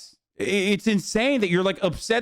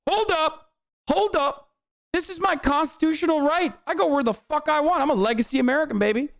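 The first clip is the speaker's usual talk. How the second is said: mocking rioter; 9 semitones higher than usual. Streamer mocks Capitol rioters with a high, whiny voice. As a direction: whine like a self-righteous Capitol rioter. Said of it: "And then they're like".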